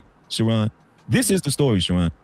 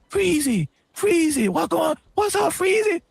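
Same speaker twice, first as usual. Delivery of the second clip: whiny caller; 12 semitones higher, slower than usual. Retold or imitated. Imitating Anton calling upset.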